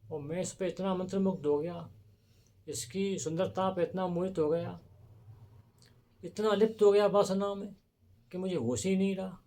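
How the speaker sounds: acted regret, pitch lifted, swelling midway; a king's mild self-cursing lament; self-reproach. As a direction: berate yourself in mounting dismay. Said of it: "उसने अपने आप को बहुत कोसा".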